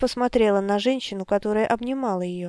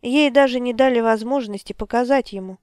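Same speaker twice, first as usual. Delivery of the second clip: ordinary talk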